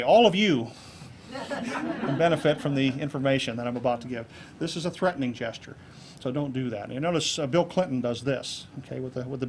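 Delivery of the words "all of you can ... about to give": overly formal, stilted opening line; stiff opener. Shown as a demonstration. Speaker showing how not to open a talk, stiff and formal. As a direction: address the room like a stuffy speaker. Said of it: "Notice I didn't say".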